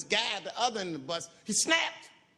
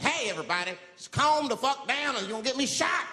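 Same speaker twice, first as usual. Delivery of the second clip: mild plea; 7 semitones higher, 4 dB louder than usual. Retold or imitated. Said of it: "I said".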